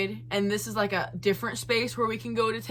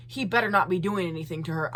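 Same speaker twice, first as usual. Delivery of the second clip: lower, quick mock threat; lightly put-on tough-guy grumble; imagined Chad voice; 4 semitones lower, 3 dB quieter, faster than usual. Telling mom he better not, muttered mock warning. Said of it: "that's how he sounds in my head".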